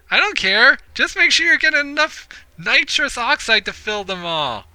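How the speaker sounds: high-pitched, careless party-ghost voice; Polly the party ghost. Acted. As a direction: toss it off in a high character voice. Voices Polly in game dialogue.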